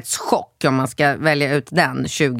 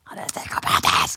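whisper; 10 semitones lower, 5 dB quieter than usual. Retold or imitated. Mother imitating her son whispering about the boy who hit him. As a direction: whisper it low, half-crying. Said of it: "viskar han så här".

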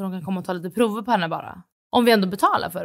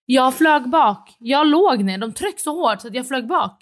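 dramatic retelling; 4 semitones higher, 4 dB louder, slower than usual. Real, not acted. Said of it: "dramatic retelling".

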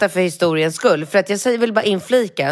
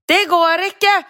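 much higher, louder flat refusal; shrieking clerk; 11 semitones higher, 4 dB louder, slower than usual. Retold or imitated. Clerk's last refusal, hammed-up high. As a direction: squeal the final no. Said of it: "ett småhysteriskt".

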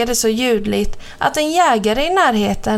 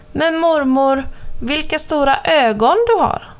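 put-on higher, amazed little girl; the girl stares at grandma's ears, higher and amazed; girlish wonder; 5 semitones higher than usual.

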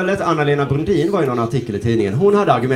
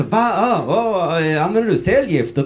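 mock incredulity; 4 semitones higher, slower than usual. Repeats advert with cancer.

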